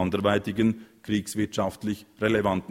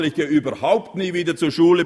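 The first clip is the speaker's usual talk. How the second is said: higher, much louder defiant roar; son bellowing back; 9 semitones higher, 4 dB louder than usual. A narrator's reading. Son yelling back at his father, defiant roar. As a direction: yell it right back in his face. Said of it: "brüllte der Sohn".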